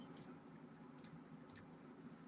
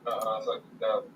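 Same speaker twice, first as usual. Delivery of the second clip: devil voice; 4 semitones lower, 7 dB quieter, slower than usual. Pretend. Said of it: "It sounds like the devil right now".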